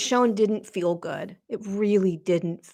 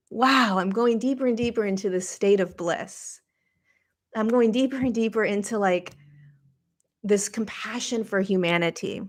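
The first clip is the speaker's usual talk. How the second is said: dreamy blissful inner voice; 3 semitones higher than usual. Retold or imitated. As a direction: mildly voice the wonder of sinking into bliss.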